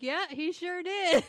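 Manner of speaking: laughing through the words; giggling while agreeing with her daughter. Real, not acted. Mom laughing at her daughter's remark, laughing.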